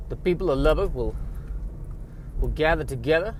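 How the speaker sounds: hammed-up Texan drifting off course; rally the townsfolk in a shaky-footed Southern accent; put-on Texas accent. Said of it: "this is morphing into another, uh, kind of accent".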